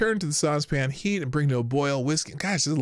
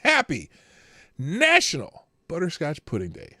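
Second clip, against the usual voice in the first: cheery announcement; 3 semitones higher, 3 dB louder than usual. Real, not acted. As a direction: sell it like a holiday host. Cheery sign-off to viewers.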